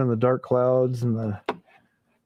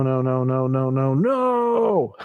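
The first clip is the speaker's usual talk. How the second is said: drawn-out frightened no; scared whimper; much slower than usual. Retold or imitated. Mimicking scared Grace.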